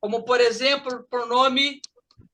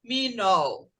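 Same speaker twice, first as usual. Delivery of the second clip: "terminal" broken apart, TER held, then a lower "minal"; syllable-by-syllable stress; 4 semitones lower, 4 dB quieter than usual. Shown as a demonstration. Teacher marking stress for class, "terminal" split after TER. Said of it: "olha como é que eu levantei a mão".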